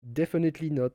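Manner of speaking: "Definitely not" with a light French accent, the final t dropped; mock your own French accent on "Definitely not", "nɔ" without the t. Shown as a demonstration. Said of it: "With the French accent".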